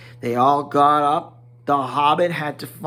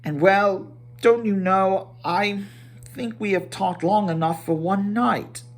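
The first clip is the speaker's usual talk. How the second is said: higher, fussy hobbit host; Bilbo voice; 5 semitones higher than usual. Acted. Bilbo sending the dwarves to bed, higher fussy hobbit voice. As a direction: lift into the fussy little hobbit.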